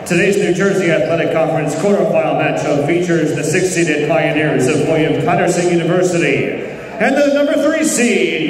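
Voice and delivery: ordinary talk, nothing marked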